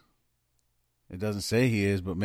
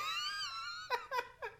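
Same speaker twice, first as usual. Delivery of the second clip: very high, thin wheezy laugh; wheezing laugh; 13 dB quieter than usual. Real, not acted. Co-hosts joking about the puppy's cord, squealing laughter. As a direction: laugh until only a soft squeal is left.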